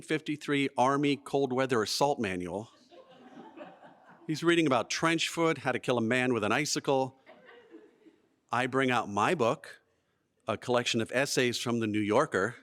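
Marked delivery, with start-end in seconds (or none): none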